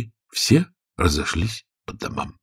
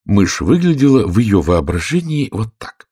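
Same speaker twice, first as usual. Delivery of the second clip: ordinary delivery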